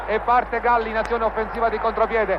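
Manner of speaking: rising, racing radio goal call; breathless italian goal commentary. Real, not acted. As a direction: build to the goal and shout it.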